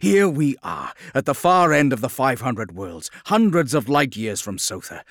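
loud, high self-reproaching outburst; overwhelmed by emotion. A narrator's reading. The Lion realising he was lured away, overwhelmed with anger. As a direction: let anger at yourself pour out at full voice. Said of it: "overwhelmed by emotion".

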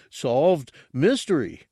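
slow, sleepy creature grunt; sleepy gurgle. Acted. Freshly woken Gartog tells his boss, gurgling sleepily. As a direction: mumble it half asleep. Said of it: "Gartog gurgled sleepily".

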